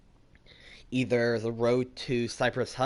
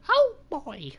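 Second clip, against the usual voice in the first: very high, loud cartoon mouse squeal; a badly done falsetto cartoon mouse impression; Mickey; 6 dB louder than usual. Streamer trying a cartoon mouse exclamation, squeaky falsetto. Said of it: "that wasn't a good Mickey accent".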